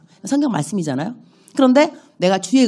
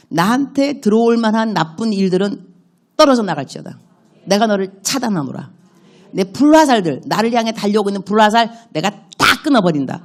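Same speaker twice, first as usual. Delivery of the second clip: rebuking prayer; 2 semitones higher than usual. Shown as a demonstration. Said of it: "대적기도 일찌감치".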